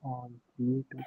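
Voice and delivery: muffled, as if through a hand; speech muffled and unclear. Real, not acted. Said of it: "completely muffled out".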